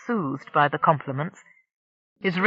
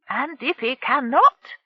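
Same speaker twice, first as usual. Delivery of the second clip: mild demand; 7 semitones higher, slower than usual. A narrator's reading. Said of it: "Narrowleg demanded".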